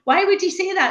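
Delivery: high-pitched mock wailing; hammed-up distraught complaint to sister; acted tearful protest. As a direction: protest in a high, whiny wail. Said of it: "I was in floods of tears to her".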